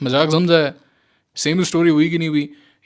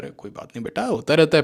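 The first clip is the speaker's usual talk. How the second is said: put-on much softer, fondly soothing a child; coaxing the market's voice; 3 dB quieter than usual. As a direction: pamper the trader like a kid. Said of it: "पुचकारता है market आपको". (पुचकारती हुई धीमी आवाज़)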